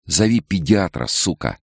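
a snapped order with an insult; harsh order. A narrator's reading. Nicole ordering the doctor to call a pediatrician, harsh. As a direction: command her with contempt.

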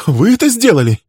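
high, loud astonished question; surprised. Acted. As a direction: gasp it out in disbelief. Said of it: "удивлённо спросил он".

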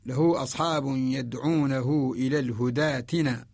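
slow recitation, الهداتنا joined on a long aa; Warsh connected reading. Shown as a demonstration. Teacher demonstrating Warsh connected reading, slowly, long aa in الهداتنا. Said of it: "هذه هي رواية ورش".

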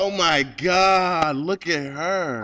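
high, loud and drawn out; excited, amazed. Real, not acted. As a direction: gush over her, slowly. Ogling woman in the video.

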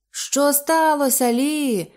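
slow, high alarmed call to Li; anxious shout. Acted. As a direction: call out to her, worried and drawn out. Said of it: "крикнув Ейб". (стривожений вигук)

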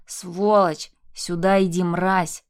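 loud snarled insults; furious yell. Acted. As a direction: roar from down the hall. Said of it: "орал из коридора муж". (яростный крик)

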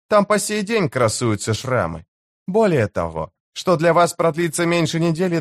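high-pitched, cool-headed woman's voice; chief's wife, knowing. Acted. Chief's wife warning the enemy leader, knowing and high-pitched. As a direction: answer him high and knowingly.

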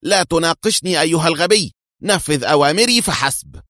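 shouted rebuke of an idiot underling; angry shout. A narrator's reading. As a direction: snap the command at a fool. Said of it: "صاحت في غضب".

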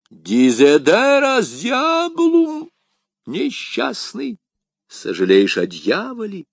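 high, slow outraged priest cry; a shocked Jesuit, high and loud; jesuit exclaiming. A narrator's reading. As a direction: cry out in pious horror. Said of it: "Вскричал иезуит".

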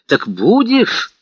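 insistent. A narrator's reading. Masloboev presses Vanya to come, insistent. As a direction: push him to promise. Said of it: "спросил он настойчиво".

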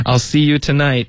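high-pitched mock call. Rachel making the date from afar, high call. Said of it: "就是用喊的".

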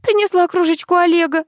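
high-pitched loud cry; shout. A narrator's reading. Daughter-in-law shouting an excuse up to the old woman, loud and high. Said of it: "закричала невестка".

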